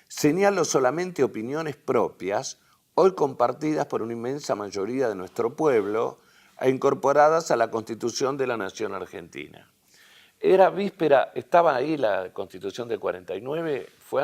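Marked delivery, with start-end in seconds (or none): 0.1-9.7 louder, higher-starting declamatory read; formal public-address reading; reading a speech aloud. Acted. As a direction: read the statesman's address out to the hall.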